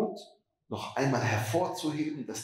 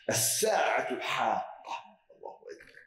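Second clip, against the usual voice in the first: whispered recitation. Shown as a demonstration. Reciting the Arabic phrase.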